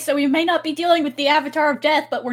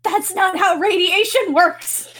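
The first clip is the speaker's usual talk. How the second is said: exasperated; 8 semitones higher, 4 dB louder, slower than usual. Real, not acted. Biologist exasperated outburst.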